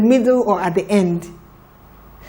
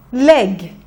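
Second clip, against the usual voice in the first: faster blend. Shown as a demonstration. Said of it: "A little bit faster".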